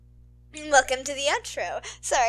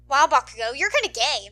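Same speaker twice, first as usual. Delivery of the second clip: snickering; 8 dB louder than usual. Acted. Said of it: "Mineta snickers".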